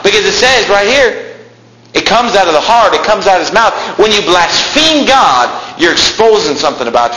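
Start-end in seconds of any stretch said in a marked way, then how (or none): 4.0-7.2 fiery preacher's cry; preaching shout. Real, not acted. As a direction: drive the point home at the top of the voice. Preacher exclaims.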